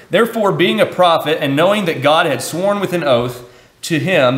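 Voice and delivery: solemn public scripture reading. Acted. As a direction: read the verses with weight. Reading Acts scripture aloud.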